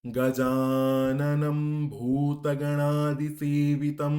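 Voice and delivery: very slow, loud, syllable by syllable; measured recitation. Shown as a demonstration. Teacher reciting carefully, measuring each syllable, slow and loud. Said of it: "মেপে মেপে উচ্চারণ করব".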